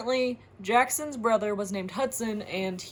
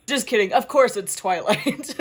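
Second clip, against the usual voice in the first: laughing; 6 dB louder than usual. Real, not acted. Laughs at own joke answer.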